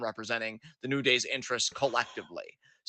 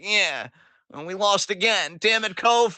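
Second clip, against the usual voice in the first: mock sulky outburst, rising higher and louder; pouty and angry; 6 semitones higher, 4 dB louder than usual. Host imitating Xavier griping to his partner after losing, pouty and angry. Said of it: "all pouty and fucking angry about it".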